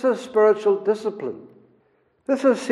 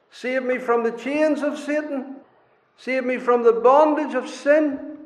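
pleading prayer; 4 semitones higher than usual. Retold or imitated. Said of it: "doesn't he have to say".

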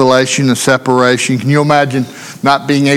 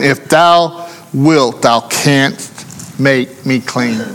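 humble plea; much slower than usual. Retold or imitated. Leper's plea, quoted scripture.

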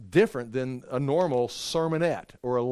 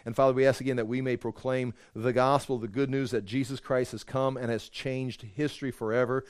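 closing prayer; 4 semitones lower than usual. Acted. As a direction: pray it humbly, winding down.

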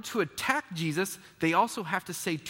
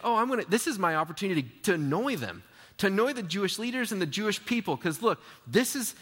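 gleeful; 3 semitones higher, faster than usual. Retold or imitated. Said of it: "He's saying".

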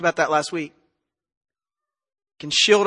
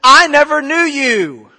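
loud, raised-pitch pronouncement of judgment; Jesus; 4 semitones higher, 5 dB louder than usual. Acted. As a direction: banish them with full authority. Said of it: "the Lord Jesus speaking on that day".

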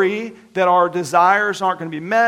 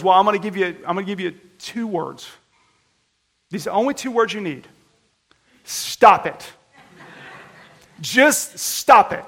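blunt deadpan counselor, louder on stop it; Bob Newhart; 4 dB louder than usual. Retold or imitated. Counselor to anxious patient, blunt deadpan. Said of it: "Bob Newhart on Mad TV".

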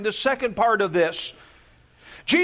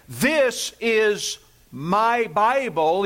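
slow demo; 2 semitones lower, much slower than usual. Shown as a demonstration. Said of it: "as I hold it up and I say".

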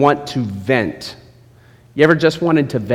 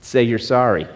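harsh lecture; 3 semitones lower than usual. Retold or imitated. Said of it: "A mentor doesn't do".

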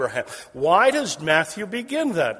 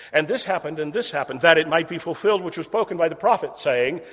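quicker, louder rerun of the phrase; faster repeat; 4 dB louder than usual. Shown as a demonstration. Preacher hammers Matthew's repeating formula, faster. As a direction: pick up speed the second time round. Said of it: "that repeating phrase".

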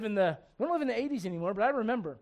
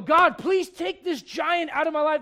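mock pleading prayer; 6 semitones higher, 5 dB louder, slower than usual. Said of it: "And sometimes you go".

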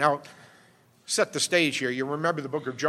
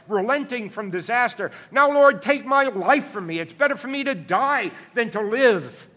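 higher, louder, pleading complaint to God, swelling to a cry at "Now, Lord"; Jonah's anguished prayer; 4 semitones higher, 3 dB louder than usual. Acted. Prophet Jonah pours out his complaint to the Lord, higher and louder. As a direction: read it as a prophet begging to die, building in heat. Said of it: "he prayed to the Lord and said".

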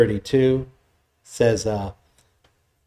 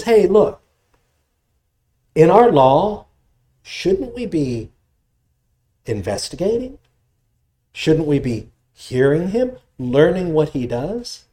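higher, slow earnest plea to the council; Nicodemus pleading; 4 semitones higher than usual. Retold or imitated. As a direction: reason gently with them, slowly. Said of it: "Nicodemus speaks up".

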